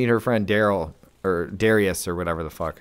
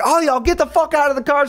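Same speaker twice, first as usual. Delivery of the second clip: high-pitched imitation of a woman picking a fight; hammed-up angry demand; mock challenge. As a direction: call them out, playing it up. Acts girlfriend challenging the car.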